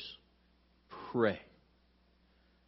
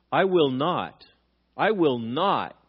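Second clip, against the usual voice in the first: insistent refusal; 3 semitones higher, 5 dB louder, slower than usual. Retold or imitated. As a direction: swear it stubbornly. Acting Peter's insistent vow.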